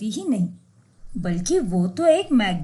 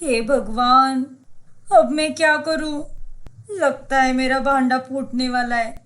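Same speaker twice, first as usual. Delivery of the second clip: panicked gasp. Acted. Urfi panics on seeing her mother-in-law in town. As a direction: panic at being caught.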